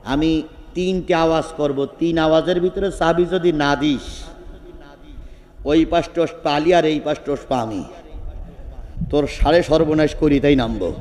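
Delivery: lightly acted warning, pitched low; low threat. Preacher playing Omar demanding the key, low threatening voice. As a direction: keep the threat low and contained. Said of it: "লোকটি তাকাই থাকলেন".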